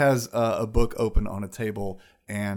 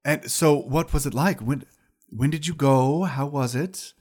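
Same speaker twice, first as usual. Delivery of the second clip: high wizard lady voice; 4 semitones higher, 4 dB louder than usual. Acted. GM voicing eating wizard.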